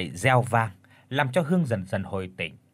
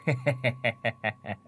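mocking laugh; 5 dB quieter than usual. A narrator's reading. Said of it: "Bà Ngọc còn cười lớn".

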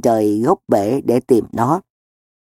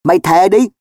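angry, raised challenge; higher, louder, tense order; through gritted teeth; 5 semitones higher, 5 dB louder than usual. Acted. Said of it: "Tôi nghiến răng".

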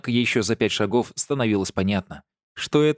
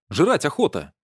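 indignant; 6 semitones higher, 3 dB louder than usual. A narrator's reading. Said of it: "возмутился Мак".

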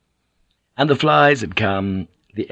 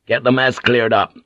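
firm order; 5 dB louder than usual. Acted. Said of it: "he ordered".

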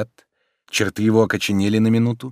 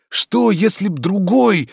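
mild horror; 10 semitones higher, 4 dB louder than usual. A narrator's reading. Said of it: "с ужасом прибавил он".

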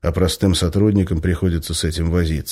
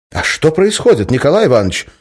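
calling out; 9 semitones higher, 6 dB louder than usual. Acted. Calling through cell walls.

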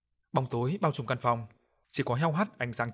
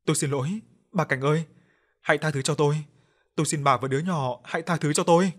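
loud pleading; 3 semitones higher, 5 dB louder than usual. Acted. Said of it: "không ngừng hét lớn".

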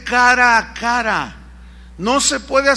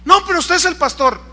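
higher, louder insistent plea; higher pleading to the pastor; pleading churchgoer; 7 semitones higher, 5 dB louder, faster than usual. Retold or imitated. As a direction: push back at the pastor, wheedling.

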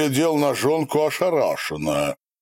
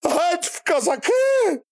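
ringing cry. A narrator's reading. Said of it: "та звонко выкрикнул".

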